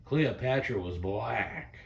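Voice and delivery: lightly voiced grandmother, slow and emphatic; slow it down, imitating a grandma's insistence; quoted grandmama. Quoting what her grandmama told her, slow mock insistence. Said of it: "her grandmama told her something one time".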